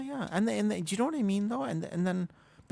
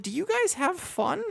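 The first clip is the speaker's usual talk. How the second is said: high, falsetto-sweet mock innocence; mock sweet question; 13 semitones higher, 5 dB louder than usual. Streamer mocking toxic players with sweet high voice. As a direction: pipe it up high and syrupy-sweet. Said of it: "And I was like".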